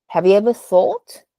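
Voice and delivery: first question, rising at "thought"; rising question tune. Shown as a demonstration. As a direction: lift the voice on "thought". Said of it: "here we have two questions".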